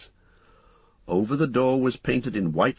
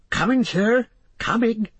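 high-pitched answering call; servant calling back; 14 semitones higher, 4 dB louder than usual. Acted. Hobbit servant answering the landlord, calling out.

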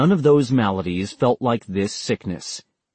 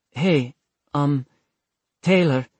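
put-on nervous young man; 4 semitones higher than usual. Vincent calls over, tired.

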